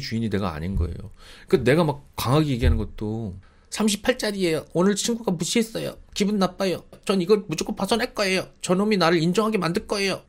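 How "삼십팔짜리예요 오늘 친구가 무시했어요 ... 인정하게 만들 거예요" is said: higher, childlike voice mocking an adult; childish whiner. Mocking a thirty-eight-year-old who sounds like a schoolkid, higher childish whine. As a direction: sound like a sulky middle schooler. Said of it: "중학생 같아".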